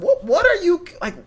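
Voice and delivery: high, mocking exasperation; squeaky, laughing brush-off of complainers; annoyed retort. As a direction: tell the whiny commenters to chill out. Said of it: "I just muted all of them and just said".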